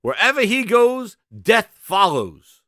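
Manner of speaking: loud, slow doom announcement; ominous proclamation. Pretend. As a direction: pronounce it like a dark prophecy. Doom proclamation about Mothman.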